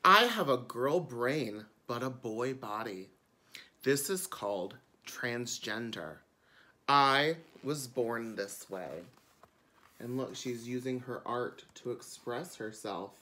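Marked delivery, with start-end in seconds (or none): 0.1-8.9 bright storytime reading; children's book narration. A narrator's reading. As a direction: read it like a picture book to kids. Reads the book aloud.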